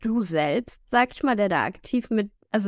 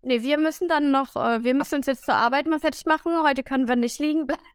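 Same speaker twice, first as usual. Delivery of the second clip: motivating self-talk; 3 semitones higher than usual. Retold or imitated. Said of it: "motiviere uns dann immer so".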